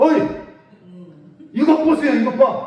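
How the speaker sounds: high, huffing, insolent, rude outburst. Speaker retells how someone addressed their father, acting out an angry huffing retort. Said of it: "막 씩씩거리고 와가지고".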